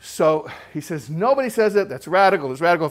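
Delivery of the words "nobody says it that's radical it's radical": mildly excited. Retold or imitated. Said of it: "Finally calms down".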